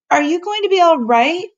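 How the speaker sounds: high, loud call; worried girl calling after the professor. A narrator's reading. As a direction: call ahead to him on the bike. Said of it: "she called".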